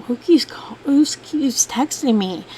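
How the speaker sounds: whispered, puzzled question; mother whispers over strange texts from an unknown number; retold whisper. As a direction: whisper it to yourself in confusion.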